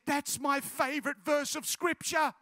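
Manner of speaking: retold delighted recognition; excited amazement. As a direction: lift it out of the hush with amazement. Girl amazed at scripture coincidence.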